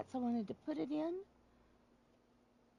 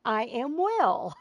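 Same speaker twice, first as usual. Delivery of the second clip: slow explanation; 8 dB louder, slower than usual. Shown as a demonstration. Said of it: "so it means".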